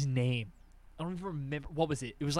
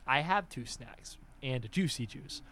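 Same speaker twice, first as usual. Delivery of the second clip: quiet, low, measured reply; restrained kid's protest; 4 semitones lower, 10 dB quieter than usual. Acted. Kid to snack server refusing juice, restrained. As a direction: hold it in, speaking softly and lower.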